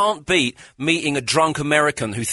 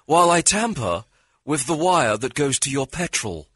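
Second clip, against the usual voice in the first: slow, suave aristocratic villain; English supervillain; 3 semitones higher, slower than usual. Pretend. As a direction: offer the champagne with slow menace. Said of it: "Now that's good".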